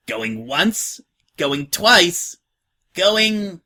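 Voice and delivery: playful going once, going twice; mock auctioneer. Scratch to hesitant new girl, mock auction.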